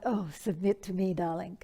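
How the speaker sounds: mock seductive whisper of darling; sultry invitation. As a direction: seduce with a hushed come-on. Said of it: "but not".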